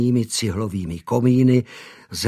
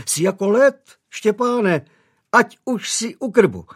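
higher, tender doting mother; 9 semitones higher, 4 dB louder than usual. A narrator's reading. Mother greeting son holding his head, higher and doting. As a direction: fuss over him lovingly.

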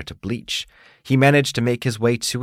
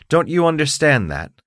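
proud, indignant beetle, pitched higher; haughty bug demanding his due; 8 semitones higher, 5 dB louder than usual. Acted.

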